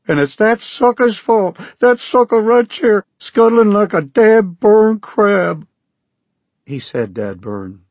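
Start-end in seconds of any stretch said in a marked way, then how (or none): 0.0-5.6 loud, much higher twangy Okie yell; shouted Okie accent. Acted. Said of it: "shouted at me in that out-of-tune banjo Okie accent".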